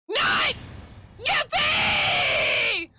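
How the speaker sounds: high, loud dramatic verdict; shouted verdict. Acted. Judge declaring the defendant innocent, loud triumphant shout.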